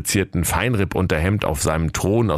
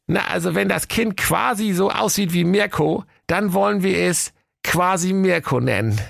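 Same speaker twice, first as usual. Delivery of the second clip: much higher, squeaky wife voice; a chirpy excited wife; Waltraud's voice; 12 semitones higher than usual. Acted. Wife showing her husband a bundle, high and eager. Waltraud happily names the child.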